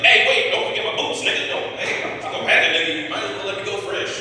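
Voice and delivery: high, loud pleading Jesus; mock Jesus. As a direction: beg for your boots like it's urgent. Jesus voiced begging for boots.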